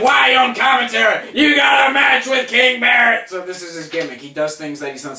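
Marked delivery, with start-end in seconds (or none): 0.0-3.3 high, loud mock bellow; JBL. Mimicking commentator scolding R-Truth, loud indignant shout. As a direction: yell it like an outraged announcer. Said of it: "J B L's like".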